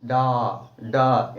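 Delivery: डॉ cut off and said alone as just its first sound; first sound isolated. Shown as a demonstration. Teacher to students, isolating the first sound. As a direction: sound out only डॉ, clipped short. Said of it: "कौन सा sound आ रहा है पहला अक्षर".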